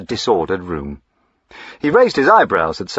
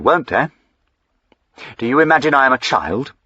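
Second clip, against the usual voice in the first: sharp, raised, quickened indignation; indignant retort; 6 semitones higher, 4 dB louder, faster than usual. Acted. Master snapping at his servant, indignant and raised. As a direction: bristle at being treated like a child.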